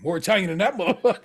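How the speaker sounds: quick retort through laughter; laughing retort. Retold or imitated. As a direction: snap back, laughing. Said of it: "He's like".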